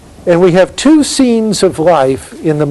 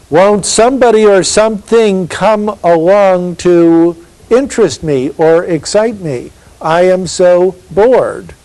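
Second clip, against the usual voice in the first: bored woman; 4 semitones higher than usual. Acted. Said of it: "She's just waiting for something to happen".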